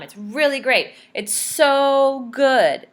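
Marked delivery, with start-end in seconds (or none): 1.1-2.9 slow, drawn-out delight; gushing. Shown as a demonstration. Teacher explains fantastic to children, gushing. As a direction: savour every word. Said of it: "teacher savouring the word".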